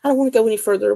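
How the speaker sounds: a lightly hammed-up frightened whine; mock scared. Telling the friend she was not whining, mock fearful. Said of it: "it wasn't like I was going".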